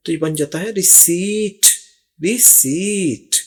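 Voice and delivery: रिसीट said ree-SEET with no p sound; रिसीट, the p stays silent; receipt with silent p. Shown as a demonstration. Teacher showing students रिसीट without the p. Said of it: "पी की यहाँ पर कोई आवाज़ नहीं है".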